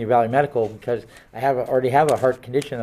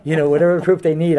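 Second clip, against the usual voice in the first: laughing; 5 semitones higher, 6 dB louder than usual. Real, not acted. Joking about faking records.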